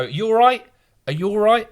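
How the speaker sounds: high, bright mock Belfast "You all right?"; Northern Irish accent. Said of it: "in a Northern Irish accent".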